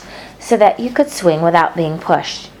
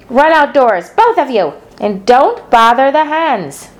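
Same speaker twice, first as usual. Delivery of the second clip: aunt voice; 7 semitones higher, 3 dB louder than usual. Acted. Aunt sending children out.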